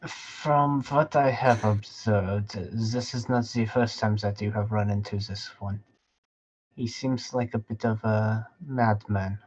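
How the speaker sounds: put-on lightly accented, deliberate character voice; measured, observant character. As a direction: observe it carefully, in measured phrases.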